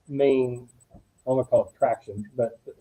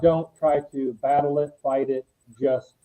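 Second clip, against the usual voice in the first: slow, grave retold warning; dead serious. Colleague relaying John's advice not to fight it, dead serious. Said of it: "he was very dead serious".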